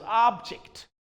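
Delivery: American object, OB-jekt with an open ah; American accent. Shown as a demonstration. Teacher showing how Americans say object, in an American accent.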